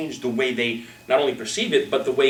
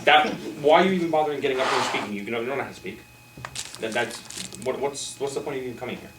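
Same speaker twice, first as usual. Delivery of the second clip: mock harsh coach. Shown as a demonstration. Coach demoing harsh scolding in front of the group. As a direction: scold the speaker as if he's hopeless. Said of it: "Big difference, right?".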